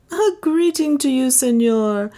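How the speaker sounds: amused adventurer, unhurried; Leonard. A narrator's reading. Leonard greets.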